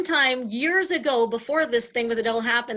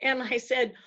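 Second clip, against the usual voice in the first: ordinary delivery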